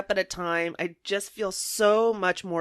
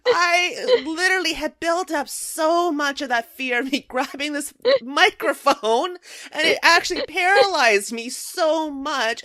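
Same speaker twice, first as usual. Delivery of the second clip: laughing while talking; 6 semitones higher, 4 dB louder than usual. Real, not acted. Laughing through the fear story.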